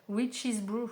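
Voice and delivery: French speaker's attempt at an English accent; accent anglais. Shown as a demonstration. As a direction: say it with a proudly put-on English accent. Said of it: "avec mon super accent anglais". (accent anglais appliqué)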